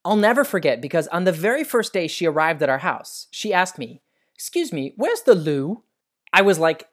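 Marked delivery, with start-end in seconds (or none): 4.3-5.8 put-on English accent. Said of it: "she spoke with an English accent".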